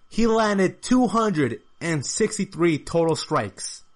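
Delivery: slow, deliberate stress on "two hundred and sixty-three"; emphatic repeat. Real, not acted. Commentator repeating a key fight stat, slow and emphatic.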